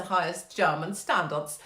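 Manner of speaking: a touch of bad German accent; botched, put-on German accent for effect; mock German accent. Comic quoting Merkel on vaccine standards, in a shaky-aimed German accent. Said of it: "don't know what accent that was".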